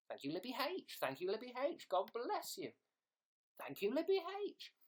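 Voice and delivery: broad Sheffield thank-you; Sheffield accent. Pretend. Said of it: "Sheffield accent".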